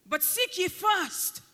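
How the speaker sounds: seek ye first, with first drawn out and stressed. Acted. Preacher quoting Jesus, slow weight on first. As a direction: lean slowly on first as Jesus. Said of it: "Jesus' emphasis is on the word first".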